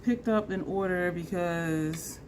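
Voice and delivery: ordinary talk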